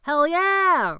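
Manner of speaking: high, loud cheer. A narrator's reading. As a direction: whoop it out. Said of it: "Roger cheered in his deep voice".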